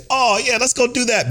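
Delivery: high, gushing mock-girly yes; mock eager girlfriend. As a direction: chirp it like a giddy girlfriend.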